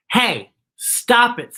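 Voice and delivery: panda. Acted. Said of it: "said the panda".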